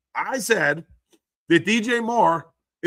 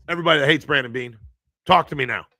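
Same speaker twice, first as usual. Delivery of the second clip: yelling; 4 semitones lower, 4 dB louder, much faster than usual. Real, not acted. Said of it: "Sorry, I'm not yelling at you".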